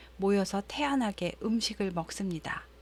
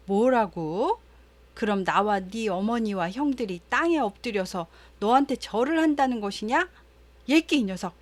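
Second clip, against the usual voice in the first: mildly angry acted scolding, louder opening; scolding father; 3 dB louder than usual. Jacob rebukes his son over the dream, mild acted anger. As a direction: scold with indignant disbelief, in mock outrage. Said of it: "버럭 화를 내주었지만".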